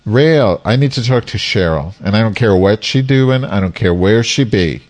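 big hall echo; echoey. Real, not acted. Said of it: "why do you sound so echoey".

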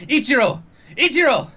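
high-pitched panicked call; acted high yell for someone; shouting. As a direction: shout the name for help, voice jumping up high. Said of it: "he starts shouting".

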